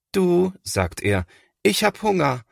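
put-on high, small child's voice; high little brother voice; little boy. A narrator's reading. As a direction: plead to the big brother. Little Linus tugs at his brother.

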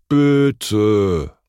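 loud, drawn-out begging; pleading. A narrator's reading. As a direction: beg like an eager schoolchild. Pupil begs teacher for permission.

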